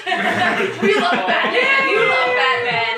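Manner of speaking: high, drawn-out fan shout; whooping, stretched-out squeal of fandom; excited cheering. Real, not acted. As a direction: cheer it at the top of your voice. Cheering for Batman with the hosts.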